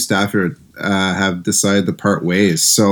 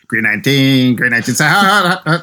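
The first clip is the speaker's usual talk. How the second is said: lightly voiced quarterback calling signals with a laugh; mock Rodgers barking the cadence at the line, rising into laughter; a hint of Rodgers at the line of scrimmage; Aaron Rodgers impression; 3 semitones higher, faster than usual. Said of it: "That was my Rodgers".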